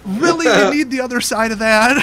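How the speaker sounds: a retold jab of disbelief, pushed up in pitch; sarcastic disbelief. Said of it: "I'm like".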